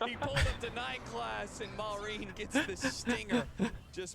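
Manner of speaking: high, loud, urgent commentary call; excited play-by-play. Real, not acted. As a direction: call the fight as it swings. Live teamfight call.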